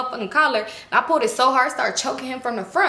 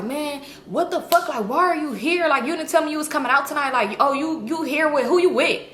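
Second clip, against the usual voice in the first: slightly raised, protesting imitation; exasperated man, imitated; 4 semitones higher than usual. Boyfriend questioning why she came, lightly imitated protest. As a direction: lightly mimic a man demanding an explanation.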